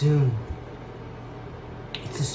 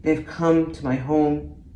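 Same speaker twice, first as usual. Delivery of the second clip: poem recital. Acted. Broadway hopeful reciting her onion ode, wistful poem.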